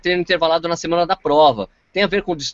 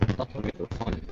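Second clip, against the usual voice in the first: choppy breaking-up audio; 7 semitones lower, 13 dB quieter than usual. Real, not acted. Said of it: "É, tá ruim".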